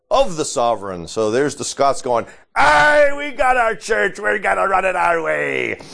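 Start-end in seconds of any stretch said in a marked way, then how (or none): 2.6-5.8 high, hammy Scottish brogue; Scottish accent. Retold or imitated. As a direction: ham up a Scots accent, pirate-ish. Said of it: "that sounded like a pirate instead of a Scotsman".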